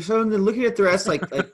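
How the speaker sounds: yawning through the words. Real, not acted. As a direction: talk mid-yawn. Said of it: "Like, you're yawning".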